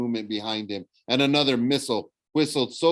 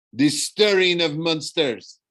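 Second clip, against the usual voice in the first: slow, higher, louder villain's relish; evil smile; 6 semitones higher, 5 dB louder, slower than usual. A narrator's reading. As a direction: announce it grandly with evil pleasure. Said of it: "smiling evilly".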